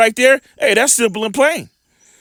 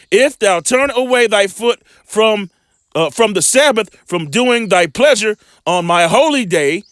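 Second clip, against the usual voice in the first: measured, slow Bible reading; preacher reading scripture aloud; slower than usual. Acted. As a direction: read the verse slowly like a preacher. Scripture read aloud in sermon.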